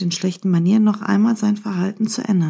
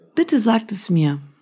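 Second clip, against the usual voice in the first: ordinary delivery, nothing marked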